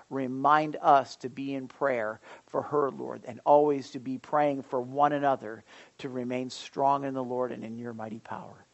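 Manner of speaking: earnest congregational prayer, pitched a little low; spoken prayer. Real, not acted. Pastor praying for a sick little girl, earnest prayer. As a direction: pray earnestly, leading the group.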